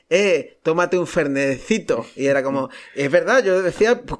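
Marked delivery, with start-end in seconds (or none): 0.1-2.1 slow, lightly put-on Argentine lilt; drawn-out hint of Argentine accent. Guest retelling his radio anecdote, light Argentine accent. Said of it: "pero no me sale decir".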